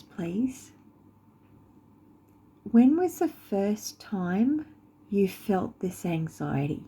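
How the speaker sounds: measured questions with long pauses; guided meditation. Acted. Guide asks listener's subconscious about first anxiety, unhurried meditation voice. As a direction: gently prompt the listener, phrase by phrase.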